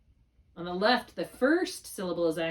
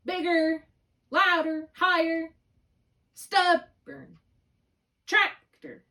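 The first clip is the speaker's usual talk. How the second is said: louder and higher, each word exaggerated; teacher to student: exaggerate the accented syllable, louder and higher; exaggerated stress; 9 semitones higher, 6 dB louder, slower than usual. Shown as a demonstration. Overdo the stress, loud and high. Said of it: "Sometimes I have to exaggerate it".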